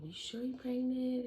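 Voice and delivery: lightly acted sceptical question; doubting friend.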